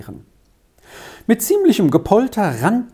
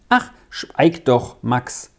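a mild lament, growing more fearful; wailing; 7 semitones higher than usual. A narrator's reading. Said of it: "jammerte Elsa". (Elsa jammert ängstlich zu Max)

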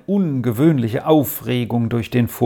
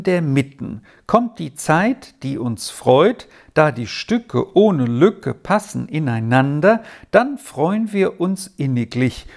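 verse recitation. Acted. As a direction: read a rhyme aloud, line by line. Father reads verse aloud.

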